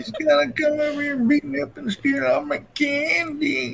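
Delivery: a hint of a grumpy old gamer, laughing; laughing old man voice. Husband repeating the old man line while laughing. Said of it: "He does this old man voice".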